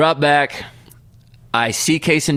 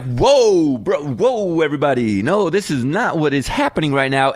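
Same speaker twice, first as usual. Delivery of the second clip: flustered dad; 2 semitones higher than usual. Retold or imitated. Dad calming crowd, son.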